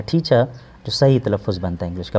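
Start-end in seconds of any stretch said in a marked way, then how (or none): 0.0-0.5 टीचर said "teacha", the r left off; silent R. Shown as a demonstration. Teacher gives the British pronunciation, टीचर without its final r. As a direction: end टीचर on an open "a" instead of r. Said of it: "British English में आर को नहीं पढ़ते".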